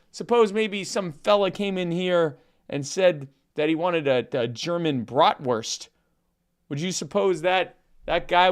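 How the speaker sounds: a hint of Norm's dry, meandering storyteller voice; Norm Macdonald impression. Telling the Polish sausage joke to his cohost in a mild Norm-style deadpan. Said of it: "cease and desist from the Norm Macdonald estate".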